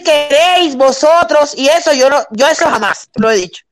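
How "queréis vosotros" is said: slow, careful Castilian queréis vosotros; queréis vosotros said slowly in a Castilian accent; Spain Spanish. Retold or imitated. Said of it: "yo nunca he podido decir".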